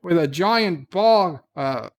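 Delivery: lightly held mock Scottish accent, selling a family cure. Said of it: "not the accents".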